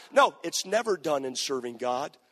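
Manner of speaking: firm shout; shouted rebuttal. Real, not acted. Preacher answering the quitter with a shout. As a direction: slam the point home.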